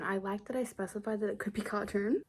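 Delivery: dry, softly spoken sarcasm; understated self-directed sarcasm; sarcastic. Real, not acted. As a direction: say it with quiet mock approval. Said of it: "I'm being sarcastic".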